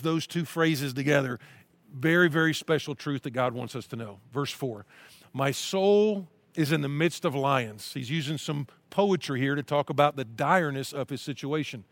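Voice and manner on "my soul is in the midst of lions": slow, earnest reading of a psalm; scripture reading. Acted. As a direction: read it as a heartfelt prayer.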